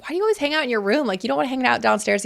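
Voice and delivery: fast curious mom nudge; quizzing her son. Retold or imitated. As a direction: poke at him, lightly puzzled. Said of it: "I was like".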